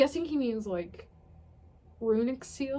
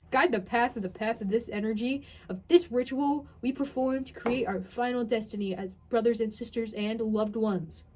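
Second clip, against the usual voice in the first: mock grand incantation; 4 dB louder than usual.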